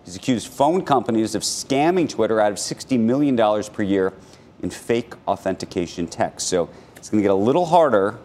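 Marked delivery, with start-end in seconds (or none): 0.1-6.5 brisk anchor news read. Acted. Reads news item on air.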